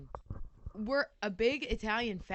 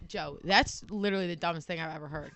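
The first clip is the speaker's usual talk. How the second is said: 1 laughing insult; 5 semitones lower than usual. Retold or imitated. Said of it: "I could be like".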